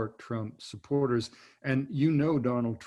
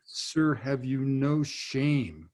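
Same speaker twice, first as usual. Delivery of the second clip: slow, solemn rebuke; 2 semitones higher, 3 dB louder, much slower than usual. Retold or imitated. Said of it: "spoke those powerful words".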